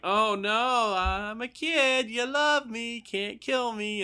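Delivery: put-on high, slow, sugary kid voice; cute kid act. Kid caught by an adult, high and sugary. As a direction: play cute to dodge trouble. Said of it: "they're like".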